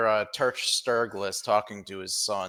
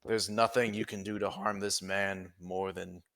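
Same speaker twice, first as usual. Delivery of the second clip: weary sigh; 5 dB louder than usual. Acted. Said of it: "Jasper sighs and says".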